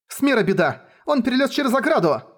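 rising into a high panicked cry; alarmed report. Acted. Girl telling the elders of the disaster, high panicked alarm.

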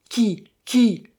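loud, high, roared demand. A narrator's reading. Sargasse demanding who is investigating him, roaring. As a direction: fire it out as an angry challenge. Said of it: "rugit-il".

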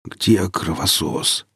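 slow strained croak; hoarse croak. Acted. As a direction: croak it out winded. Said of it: "с трудом прохрипел я".

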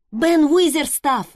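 slow, loud call upward; shouting up. A narrator's reading. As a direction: call to him on the wall. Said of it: "крикнула Мэри".

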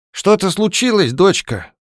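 high, surprised question; lightly voiced old woman, surprised. A narrator's reading. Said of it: "удивлённо спросила".

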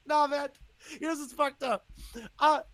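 high laughing confession; real laughter, high and loud. Real, not acted. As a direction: laugh through the admission. Laughing at own scheduling mistake.

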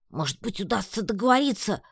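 timid question climbing high; timid squeak. A narrator's reading. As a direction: pipe up hesitantly, pitch leaping. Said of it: "робко пискнула я".

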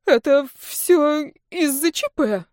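timid squeak. Acted. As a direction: squeak it out guiltily. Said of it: "неуверенно пискнула она".

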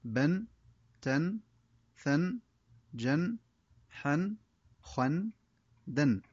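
each syllable said alone with a clear nun ending, "بن، تن، ثن"; tanween drill read aloud. Shown as a demonstration. Teacher reading the tanween chart aloud for pupils, drilled syllables. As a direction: model every letter with its tanween, one by one. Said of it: "وطريقة قراءة هذا الدرس هكذا".

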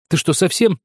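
sudden high shout of disbelief; крик. Acted. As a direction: burst out at him, shrieking. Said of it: "закричала вдруг Маринка". (резкий возмущённый крик)

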